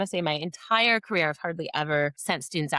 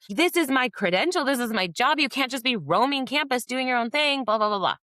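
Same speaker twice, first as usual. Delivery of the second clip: retold heated lecture; 8 semitones higher, 3 dB louder than usual. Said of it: "I am heated".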